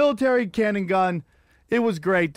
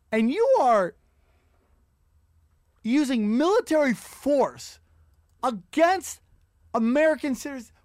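outraged rant; 5 semitones higher than usual. Real, not acted. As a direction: spell out the outrage word by word. Ranting at police over protests.

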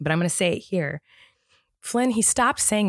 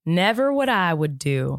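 put-on Southern accent; slower than usual. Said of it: "In a Southern accent".

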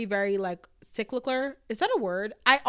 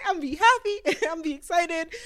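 much higher and louder, giddy and playful; giddy declaration; 8 semitones higher, 4 dB louder than usual. Acted. Podcast host to listeners, gleefully insisting she'll feel everything. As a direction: squeal it like you can't contain your feelings.

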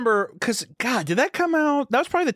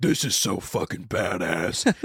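put-on kid self quote; 8 semitones lower, slower than usual. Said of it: "I was like".

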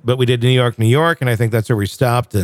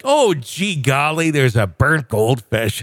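mock gee golly; slower than usual. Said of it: "it's not like".

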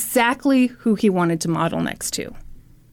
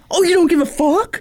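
higher, rising challenge; mock incredulous echo; 6 semitones higher than usual. Complainer questioning the gym member, mock affronted. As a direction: throw it back as a question.

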